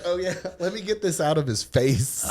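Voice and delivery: high voice through laughter; squeaky, laughing mock realization; laughing quote. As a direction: act it out while cracking up. Acts queasy moment while both laugh.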